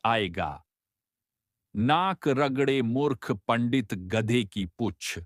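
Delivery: angry curse. Acted. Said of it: "संत को गुस्सा आ जाता है".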